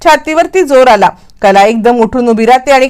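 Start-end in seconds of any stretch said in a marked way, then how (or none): 0.0-1.1 high, pained cries of hurt; mock yelling in pain. Husband yelling after wife falls on him, high and pained. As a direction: cry out that it hurts. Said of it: "आणि तो ओरडायला लागतो".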